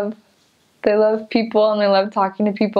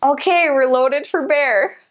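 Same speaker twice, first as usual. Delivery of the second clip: Wisconsin local; 5 semitones higher than usual. Retold or imitated. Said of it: "and he goes".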